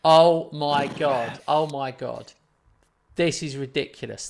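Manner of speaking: loud, drawn-out "oh my God"; stunned disbelief. Real, not acted. Streamer stunned by a huge deal, loud disbelief. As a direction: cry out in astonishment, stretching the words.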